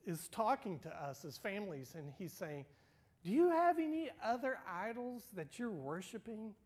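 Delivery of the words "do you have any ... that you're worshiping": higher, louder searching question; lightly voiced divine question; God's probing question. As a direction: ask it like a caring father.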